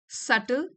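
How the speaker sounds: "subtle" said as SUT-ul, no b; silent B in subtle. Shown as a demonstration. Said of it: "बी silent है इसमें". ("subtle" में b silent, सटल)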